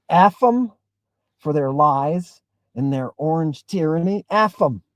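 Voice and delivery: mock-defiant cursing; defiant rant. Shown as a demonstration. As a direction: spit out the contempt. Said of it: "you gotta say it like this".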